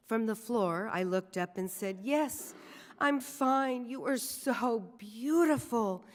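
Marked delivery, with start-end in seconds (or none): 2.0-6.1 high, awed and smitten; awed, breathless reply. Retold or imitated. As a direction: answer starstruck from the floor. Her own awed reply from floor.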